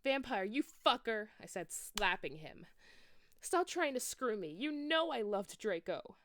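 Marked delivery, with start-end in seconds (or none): 0.0-1.3 angry. Acted. Slapping him in anger. 3.4-6.2 high, loud angry shout. Acted. Girl rejecting Vampire, high loud angry shout. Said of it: "I shouted".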